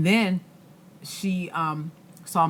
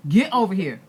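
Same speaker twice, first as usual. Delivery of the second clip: put-on rising, louder call to a child; a mom calling her son in a store, rising to a sharp shout; stern mom shout; 7 semitones higher, 8 dB louder than usual. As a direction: snap at the kid to come, getting louder. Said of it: "I was like".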